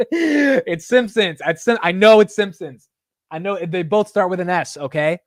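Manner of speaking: high, loud, defensive protest; flustered self-correction. Real, not acted. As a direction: blurt the correction out, pitched high and insistent. Defends slip before expected roasting.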